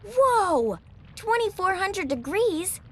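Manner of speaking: put-on a child amazed by a huge reading; shocked. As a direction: gasp at the number in disbelief.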